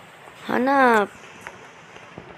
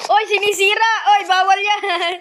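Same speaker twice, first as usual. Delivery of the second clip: playful protest; 7 semitones higher than usual. Real, not acted. Protesting in game.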